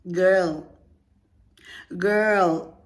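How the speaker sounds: loud, falling exasperated calls. Real, not acted. Host reacting to the reader's excuses, exasperated. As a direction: call out in disbelief.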